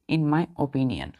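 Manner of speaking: "in my opinion" said slowly with stress on "my"; slow dictation. Shown as a demonstration. Teacher repeating the correct phrase to students, slow and deliberate. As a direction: lean on "my" and stretch the phrase out. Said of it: "क्या बोलेंगे".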